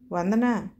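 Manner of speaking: a mother calling her daughter from inside the house. Acted. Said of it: "అరిచింది అమ్మ లోపల నుండి".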